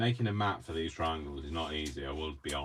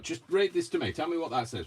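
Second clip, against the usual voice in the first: retold request; 8 semitones higher, 3 dB louder than usual. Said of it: "I was like".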